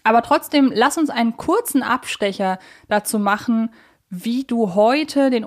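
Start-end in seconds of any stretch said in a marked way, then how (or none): none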